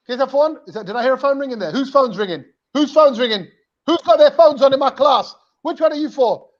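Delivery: lightly voiced teacher questioning a class; mock stern teacher. Teacher hunting a ringing phone in class, mock indignant. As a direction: build the questioning as a teacher would. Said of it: "the teacher will know it's you".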